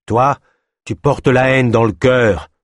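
slow and pointed comeback; retort. Acted. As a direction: throw the accusation back at him. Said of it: "répliqua Gwenil".

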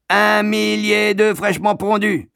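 high, loud wail of outrage; aggrieved carter repeating his complaint; indignant egg carter. A narrator's reading. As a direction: stretch the first words in exasperated protest.

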